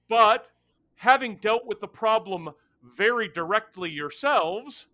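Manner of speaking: lightly voiced haughty fire being; telepathic creature. GM voices Ilvatri.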